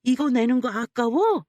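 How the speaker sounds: pointed, pushy mother-in-law voice; needling mother-in-law. Acted. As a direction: goad the daughter-in-law over money. Mother-in-law needles her over bill.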